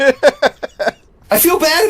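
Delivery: laughing through the hiccups; high voice, half laughing, hiccuping. Real, not acted. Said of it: "I have the hiccup".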